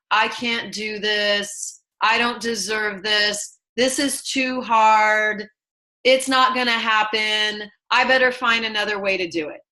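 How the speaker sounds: slow, drawn-out giving-up voice; defeatist self-talk. Retold or imitated. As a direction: drag out each hopeless excuse. Voicing defeatist inner self-talk.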